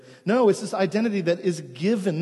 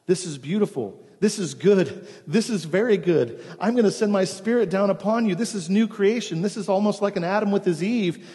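booming; 3 semitones higher than usual. Acted. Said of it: "God the Father booms out".

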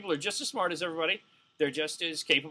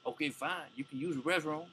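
Buck O'Neil; 5 dB louder than usual. Acted. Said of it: "you can't portray Buck O'Neil talking like Buck O'Neil".

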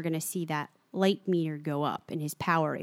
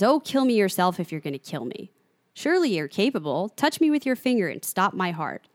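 goading Glenn; 3 dB louder than usual. Acted. Glenn dares Flag to kill him, goading. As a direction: build the challenge to a theatrical peak.

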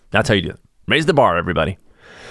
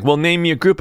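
mocking the president; 8 semitones higher than usual. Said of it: "He was like".

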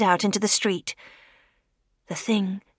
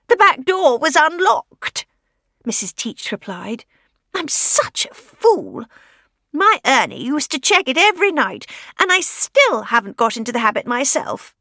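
put-on old lady voice; 4 semitones higher, 4 dB louder than usual. Widow explaining to Fay, high fretful old-lady voice. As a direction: sound like a fretting old widow.

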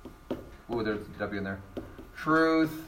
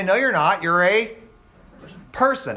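mock objection; 3 semitones higher than usual. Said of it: "And they say".

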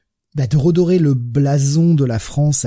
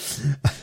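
short real giggle; a burst of genuine laughter; laughing; 3 semitones higher, 5 dB quieter than usual. Real, not acted. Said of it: "Pardon, je rigole".

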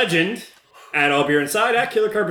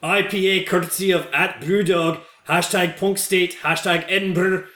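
put-on Scottish accent; 3 semitones higher than usual. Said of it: "That's not Scottish".

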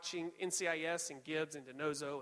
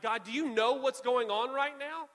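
raised, higher, slow demand; yelling at God; 5 semitones higher, 5 dB louder than usual. Acted. Believer in trouble questioning God, yelling. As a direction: cry out slowly, demanding an answer. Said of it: "I need to yell at God".

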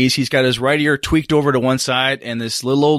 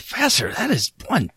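under his breath; 3 semitones higher, 5 dB quieter than usual. Acted. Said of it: "under his breath".

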